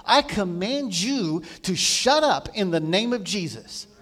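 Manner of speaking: firm, emphatic retold command; a touch of desperation, ordering a spirit silent; desperate command. Man commanding the spirit to shut up, desperate command. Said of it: "Finally, in desperation, I spoke".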